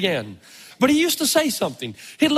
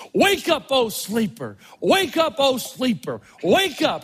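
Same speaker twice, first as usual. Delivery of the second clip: rising wake up, falling oh sleeper, repeated; call-and-response style preaching refrain; repetitive preaching call; slower than usual. Retold or imitated. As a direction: chant it like an old preacher calling the sleepers. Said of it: "tradition of repetition".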